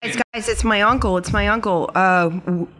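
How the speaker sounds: rushing to warn the others his uncle is coming, urgent; urgent alarm. Acted. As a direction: blurt it out fast, alarmed. Character urgently announces uncle arriving.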